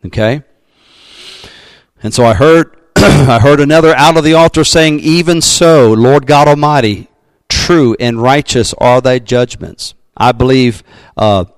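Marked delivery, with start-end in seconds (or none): 3.0-9.9 raised, ringing Bible reading; scripture reading. Acted. Pastor reading Revelation to the congregation, ringing proclamation. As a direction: lift the verse up like a proclamation.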